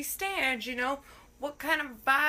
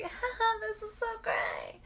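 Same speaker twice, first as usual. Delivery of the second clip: fake laugh; 9 semitones higher than usual.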